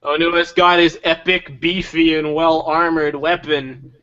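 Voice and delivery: slow, dry sarcastic praise; sarcastic review. Acted. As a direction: praise it mockingly, slowly.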